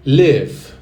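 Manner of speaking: "Live" said loud with a long I; "Live" loud, with a long vowel; model pronunciation. Shown as a demonstration. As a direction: stretch the I in "Live" and stress the start. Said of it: "Percebe que tem uma pequena extensão do I ali".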